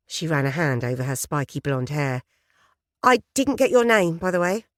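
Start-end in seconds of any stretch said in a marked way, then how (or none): 3.0-4.7 lightly voiced eager journalist. Journalist persona chats.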